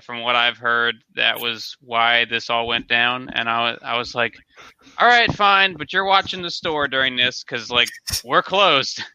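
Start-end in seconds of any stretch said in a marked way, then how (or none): 5.0-9.0 higher-pitched, exasperated retold reply; grudging consent. Store owner retelling a reply to staff, grudgingly agreeing. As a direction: give in, but lay down a condition.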